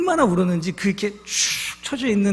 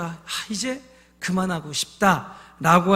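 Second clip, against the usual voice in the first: weary sigh; 2 semitones lower, slower than usual. Retold or imitated. Weary woman voiced, slowed.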